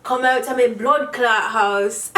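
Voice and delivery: jokey stab at Jamaican patois. Pretend. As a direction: put on a Jamaican accent. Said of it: "Do I read that in a patois".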